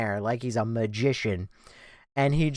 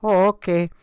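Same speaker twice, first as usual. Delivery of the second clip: lightly voiced Spanish woman, higher and louder; 6 semitones higher, 6 dB louder than usual. Spanish woman hearing there was no collar info, lightly imitated. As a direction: imitate her reply, pitched up. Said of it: "her response was she goes".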